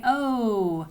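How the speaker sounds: oh said as long O saying its name; long o sound. Shown as a demonstration. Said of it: "I want it to say".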